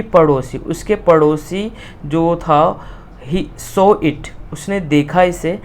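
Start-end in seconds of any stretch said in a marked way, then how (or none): 3.3-4.5 slow, word-by-word reading; slow reading aloud. Shown as a demonstration. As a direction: dictate it to the class. Teacher reads textbook line. (धीरे-धीरे पढ़ना)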